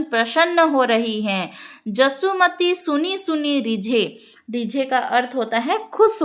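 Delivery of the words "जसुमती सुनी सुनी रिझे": verse recitation. Shown as a demonstration.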